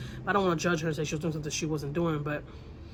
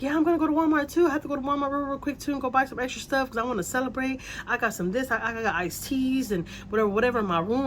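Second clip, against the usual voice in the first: imitating drunk neighbor; 6 semitones higher than usual. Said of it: "She's like".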